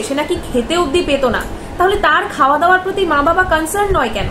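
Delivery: ordinary talk, nothing marked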